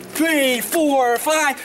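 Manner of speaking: ordinary talk, nothing marked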